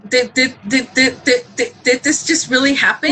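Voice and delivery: mildly stunned, stuck on the opening word; retelling a speechless double-take; retold stammering disbelief. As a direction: stutter on the first word in disbelief. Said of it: "We were in disbelief".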